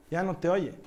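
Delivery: a mocking laugh in the voice, dismissive; mocking doctor. The doctor mocks the pastor, scoffing and dismissive. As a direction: scoff at him like the doctor did. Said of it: "En esa forma así de burlón".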